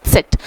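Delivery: सेट begun with a ts as in उत्सव; German letter Z. Shown as a demonstration. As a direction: say Z as सेट with a ts start. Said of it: "जिस तरह हिंदी में उत्सव होता है". ("सेट" उत्सव वाले त्स से शुरू)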